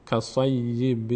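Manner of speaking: slow کصیب run together, ending on a held m; ka-sayyi-bim, the last syllable hummed on m; joined mim. Shown as a demonstration. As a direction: draw out کصیب and let its ending merge into m. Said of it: "ب مستقیم میچسبه به میم".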